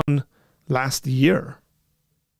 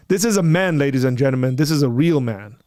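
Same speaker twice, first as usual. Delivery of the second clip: mock announcer; 3 dB louder than usual. Host hyping his friend to the audience, mock announcer. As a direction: present him like a ringside hero.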